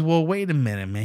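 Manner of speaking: mock Mexican accent; Mexican accent impression. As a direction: driver reconsidering, put-on Mexican accent. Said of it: "stereotypical Mexican accent".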